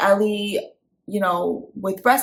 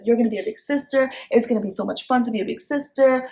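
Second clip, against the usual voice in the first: cheerful encouragement; 4 semitones higher, faster than usual. Shown as a demonstration. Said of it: "I would be like".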